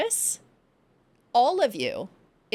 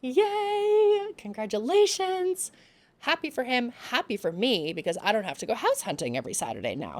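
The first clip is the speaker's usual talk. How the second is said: mock cheer; 3 semitones higher than usual. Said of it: "And I'm like".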